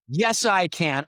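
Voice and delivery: imitating his own can-do reply; eager yes. Consultant bluffing a yes to clients, eager.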